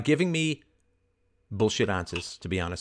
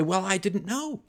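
slow, drawn-out whiny excuse, rising at the end; dragging out a weak excuse; mock excuse; 8 semitones higher, slower than usual. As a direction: play it as a lame excuse. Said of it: "You say".

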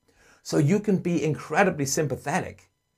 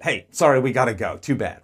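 brisk, offhand sorry-not-sorry; dismissive brush-off; 5 dB louder than usual. Shown as a demonstration. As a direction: wave her feelings away lightly. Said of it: "you're like".

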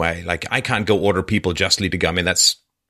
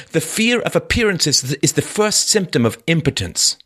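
bitter, defiant murderer, pitched high; Raskolnikov reading voice, higher; 9 semitones higher than usual. Acted. Raskolnikov lashing out at his sister, high and bitter. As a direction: read him higher, wounded and proud. Reads Raskolnikov's confession aloud.

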